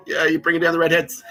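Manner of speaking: loud, high, amused telling-off; teasing protest bursting into laughter; laughing mock reproach. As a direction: scold her playfully, cracking up. Acted reply, breaking into laughter.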